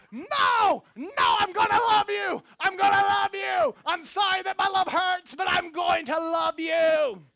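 high, loud shouted insistence, hammed up; mock insistent shout. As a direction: bellow the love at her, playfully relentless. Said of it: "I'm like".

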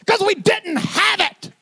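high, loud grandfather shout; loud yelling granddad. Retold or imitated. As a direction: yell it like an old man scolding. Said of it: "Then he got really loud".

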